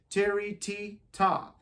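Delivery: chanting tiri and ta in time; rhythm syllables. Shown as a demonstration. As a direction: count it out to the beat. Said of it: "sounds like".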